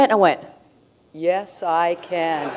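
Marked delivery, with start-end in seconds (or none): 1.1-2.5 1 confident yes. Retold or imitated. Confident reply to a challenge.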